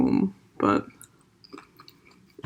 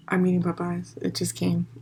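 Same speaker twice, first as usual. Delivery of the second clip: chewing while talking; 6 dB quieter than usual. Real, not acted. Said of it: "I'm sorry if you hear me, um, eating".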